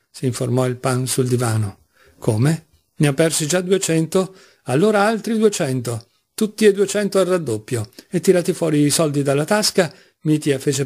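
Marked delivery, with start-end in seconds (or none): 2.2-7.9 rising from disbelief to insistence; heated gambler. Acted. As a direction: pitch climbs as the stakes rise. Losing gambler reacts, bets more. (incredulo, poi sempre più accalorato)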